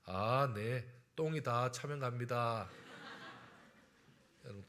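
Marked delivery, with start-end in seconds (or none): 0.0-2.7 lightly acted composed, courteous driver; deadpan gentlemanly reply, a touch exaggerated; mock genteel. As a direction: answer with unruffled, drawn-out politeness. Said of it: "눈을 지그시 감으면서 점잖게 말합니다".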